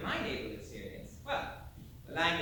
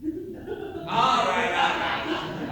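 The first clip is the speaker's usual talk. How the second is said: much louder, hammed-up all right; mock giving in; 9 dB louder, much slower than usual. Sailor gives in to the audience's pretend insistence, loud and hammy. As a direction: throw up your hands and give in loudly.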